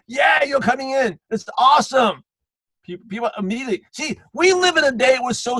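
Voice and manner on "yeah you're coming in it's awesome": mock hype, high and drawn out; excited car salesman. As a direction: overdo the dealership cheer. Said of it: "excited again. Like the car dealership guy".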